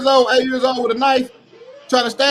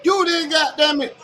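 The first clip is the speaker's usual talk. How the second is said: angry outburst; 4 semitones higher than usual. Real, not acted. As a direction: yell it at him in disbelief. Angry rant at the father.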